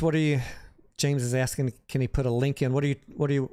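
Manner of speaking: normal talking voice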